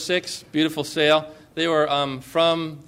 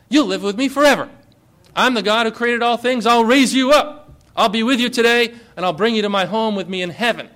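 voicing Jesus's promise; 4 semitones higher, 4 dB louder, faster than usual. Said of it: "Jesus says".

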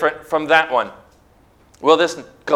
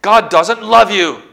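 slow, high, loud accusation; enemy's cry; 5 semitones higher, 4 dB louder than usual. Acted. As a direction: cry it out as a drawn-out taunt. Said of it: "he cries".

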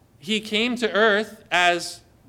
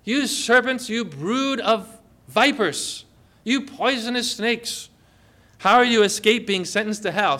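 Jesus; 2 semitones higher than usual. Retold or imitated. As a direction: denounce them forcefully, lingering on each name. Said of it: "speak it powerfully, pointedly".

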